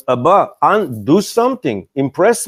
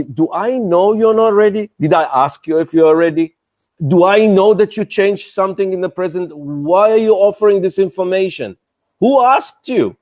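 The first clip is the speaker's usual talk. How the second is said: mock angry; 2 semitones higher than usual. Acting annoyed investor scolding startup.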